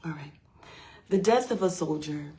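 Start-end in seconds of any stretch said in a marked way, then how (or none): 1.1-2.3 measured recital of a title; poem title announcement. Acted. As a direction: announce the poem's title with weight.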